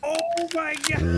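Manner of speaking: high, drawn-out amazement; amazed. Real, not acted. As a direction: stretch it out high, in real awe. Amazed at a long shot.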